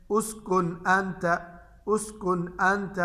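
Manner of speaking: "उसकुन अंत" slowly, clear n without nasal hum; clear izhar. Shown as a demonstration. Teacher models noon before hamza for students, clear n in "उसकुन अंत". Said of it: "इसको हम जाहिर करके पढ़ेंगे".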